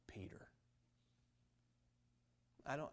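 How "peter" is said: near-whispered, low and tender; hushed name. Acted. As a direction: let the name drop almost to a whisper. Angel's message, name dropped for effect.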